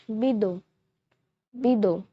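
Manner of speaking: bidon said bee-DON with a nasal end; French bidon. Shown as a demonstration. Teacher showing viewers how to say bidon, clear demo. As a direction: model bidon for learners. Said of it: "We say water bottle in French".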